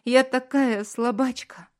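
high, loud tearful cry; wife weeping, calls herself weak; tearful self-blame. A narrator's reading. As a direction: blame herself through tears.

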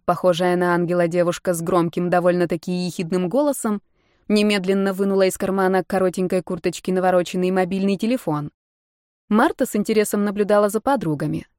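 usual speaking voice

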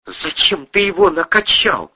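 icy, cutting question in a high woman's voice. A narrator's reading. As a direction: ask it coldly, looking down on him. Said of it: "ледяным тоном осведомилась Кристина".

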